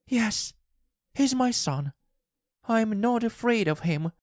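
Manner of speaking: very high-pitched, insistent reply; high, impassioned wife; defiant wife. A narrator's reading. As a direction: answer fervently in a high voice. Wife insists, defying husband.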